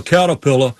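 "Caterpillar" lightly mimicked without its R's; dropped R's. Comedian mocking a driver's commercials, "Caterpillar" without R's. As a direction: say "Caterpillar" with the R's softened to vowels. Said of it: "he couldn't pronounce R's".

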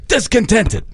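put-on heavy New York accent, drawn out; Hubie Brown New York accent. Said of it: "say it like Hubie Brown in the heavy New York accent".

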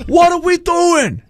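exaggerated New York accent, drawn out. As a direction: drag each word out like a cartoon New Yorker. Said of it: "I'm thinking of New York".

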